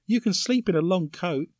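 woman voice. Retold or imitated. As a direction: read it in a mild woman's voice. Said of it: "Is that your woman voice?".

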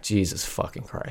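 whispered, muttered exasperation; mumbled under breath. Retold or imitated. Annoyed customer mutters about the ranting man, whispered. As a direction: breathe it out so no one hears. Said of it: "I just mumbled under my breath".

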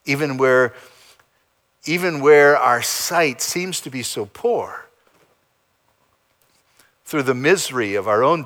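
calm, measured pastoral prayer. Real, not acted. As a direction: pray over the congregation. Closing prayer.

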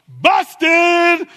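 high, loud playful shout; busted. Real, not acted. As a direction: catch them out with a laugh in the voice. Teasing the congregation.

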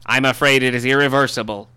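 grand self-important literary heir; Christopher Tolkien voice. Acted. Holds the Tolkien character voice.

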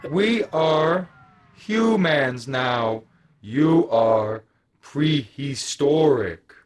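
slow, otherworldly declaration; alien brain voice. Acted. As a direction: speak like a superior alien. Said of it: "He's like".

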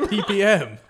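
high, loud, baffled repeat; loud disbelief. Real, not acted. Stumped contestant echoes quizmaster's abbreviation, loudly incredulous.

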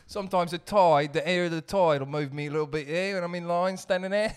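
lightly exaggerated British musing; mock British accent. Co-host muses on tides in the bit, mock British accent. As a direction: muse about it in a put-on British accent. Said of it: "it's an easy impression".

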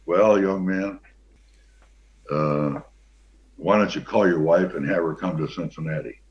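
lightly voiced calm old coach; a hint of a measured head coach; Paul Brown imitation. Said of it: "I'll try to do my Paul Brown imitation".

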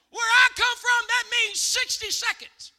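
high, loud protest; emphatic comic declaration. Real, not acted. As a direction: hammer it out, slowing at the end. Mock-indignant contrast with Ohio usage.

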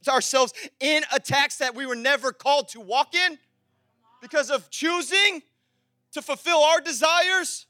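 forceful preaching. Real, not acted. Preacher urging church out of self-chosen attacks, forceful preaching. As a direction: drive each phrase home, pausing between phrases.

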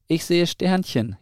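lightly acted whine of a dazed young owl; wailing. A narrator's reading. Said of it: "jammerte der andere".

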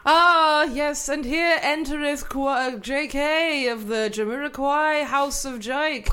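slow, hammy courtly olde speech; renaissance fair olde speech. Pretend. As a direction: ham it up like a medieval herald. Continues courtly improv.

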